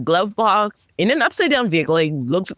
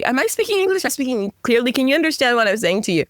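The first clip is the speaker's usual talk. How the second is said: exasperated disbelief; 6 semitones higher, faster than usual. Retold or imitated. Asking sister in exasperation.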